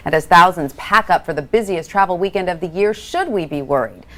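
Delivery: scripted TV news read, lively emphasis on key words; polished broadcast lead-in read; news anchor intro. Acted. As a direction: introduce the health segment like a morning news anchor. Anchor reads scripted intro to segment.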